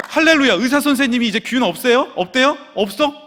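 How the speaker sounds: loud, high, excited rush of questions; elated disbelief. Retold or imitated. Husband hears wife is cured, elated and loud. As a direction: burst out overjoyed and demand confirmation.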